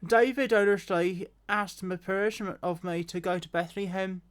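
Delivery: a hint of earnest son explaining, lightly voiced; Jonathan's voice. Shown as a demonstration. Reader redoing the line as Jonathan to Saul, lightly voiced. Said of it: "Jonathan's voice".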